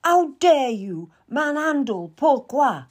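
high and loud, stressing dare; outraged shriek at the man holding her dog; screaming. Acted. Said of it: "Anne screamed at him".

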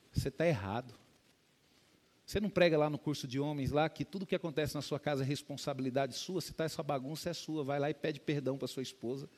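repreensão mansa, mais baixa; sábio e calmo. Retold or imitated. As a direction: corrige com doçura, sem elevar a voz. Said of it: "uma doçura de pessoa, sensata, sábia". (Irineu repreende o pastor com calma e doçura)

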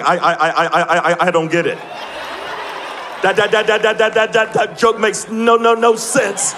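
stammering on every "I" and "that"; mock stutter. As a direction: trip over "I, I, I" and "that, that" like a stutterer. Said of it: "he's like".

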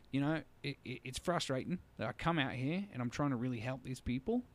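put-on a light Australian accent, retelling Steve; imitating an Australian trucker, mildly. Trucker stuck on the sand road, in a mild Australian accent. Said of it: "I'll try to do his accent".

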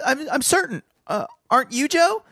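put-on high, giggling boy's voice; laughing boy. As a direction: laugh through the line.

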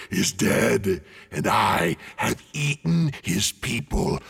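slow, booming dragon boast; gloating dragon. A narrator's reading. Dragon gloating at the hidden thief, slow and loud. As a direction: savour every threat like a tyrant. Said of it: "he gloated".

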